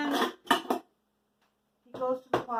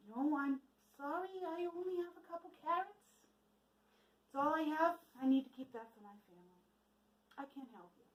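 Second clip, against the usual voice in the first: soft, sorry villager turning him away; lightly voiced woman, quietly refusing food; apologetic refusal; 2 semitones higher, 8 dB quieter than usual. Woman at the door telling the weary traveler no, softly apologetic.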